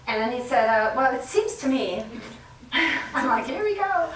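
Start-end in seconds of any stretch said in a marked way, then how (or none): 1.0-2.0 husband's phrase. Retold or imitated. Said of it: "I love his "seems to me". 3.5-4.1 amused exasperated sigh of a phrase; mock exasperated. Inner eye-roll reaction.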